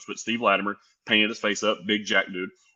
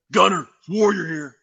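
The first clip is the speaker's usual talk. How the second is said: higher, louder, slow put-on wrestler voice; Ultimate Warrior impression; 8 semitones higher, 6 dB louder, slower than usual. Caller introducing himself on the phone, big slow wrestler voice. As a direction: boom it out like a hyped wrestling star.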